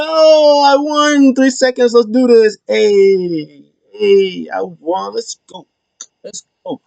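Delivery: high, drawn-out victory yell, imitated; celebrating. R-Truth celebrating a three-second win, excited imitation.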